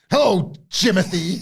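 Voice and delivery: slow, drawn-out greeting; Cena impression. Cena greeting a rival, slow and menacing. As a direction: lean in with mock menace. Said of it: "Cena really made me laugh".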